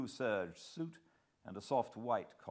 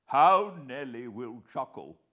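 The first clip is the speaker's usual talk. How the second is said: higher, louder hearty gentleman; plump man, bluff; 6 semitones higher, 13 dB louder than usual. A narrator's reading. Plump man explains his alibi, hearty and higher. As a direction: rattle off the alibi breezily.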